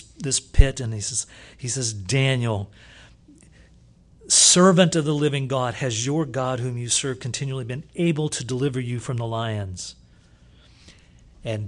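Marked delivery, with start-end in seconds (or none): 1.9-10.0 crying out. Acted. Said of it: "he cries out".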